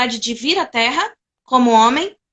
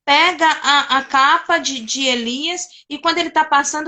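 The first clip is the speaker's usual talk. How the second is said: normal talking voice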